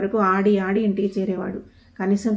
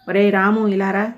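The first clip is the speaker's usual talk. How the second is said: louder summoning call; 4 dB louder than usual. A narrator's reading. Older brother calling the younger one into the room, loud. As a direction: call him over, sternly. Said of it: "గట్టిగా పిలిచాడు".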